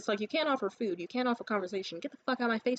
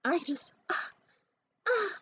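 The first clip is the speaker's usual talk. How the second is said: slow, halting, flustered stammer; flustered girl; 6 semitones higher, slower than usual. Retold or imitated. Imitating the blushing woman stammering, slow flustered stammer. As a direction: stumble over the words, bashful. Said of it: "And she was like".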